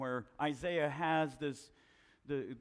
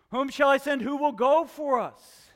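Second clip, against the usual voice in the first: booming voice of God; 11 semitones higher, 12 dB louder than usual. Acted. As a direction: call it out like God asking for a messenger. Quoting God in sermon.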